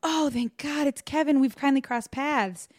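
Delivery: relieved hiker spotting a footprint. Retold or imitated. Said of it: "he's like".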